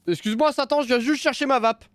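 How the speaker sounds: high, timid polite apology; high mock-polite voice. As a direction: squeak it out politely to Satan. Polite plea to demon.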